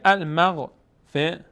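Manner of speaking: المغفرة slowly by syllable, ending -ratu; full t ending. Shown as a demonstration. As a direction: spell out المغفرة through its final -tu. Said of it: "اگر روش توقف بکنیم".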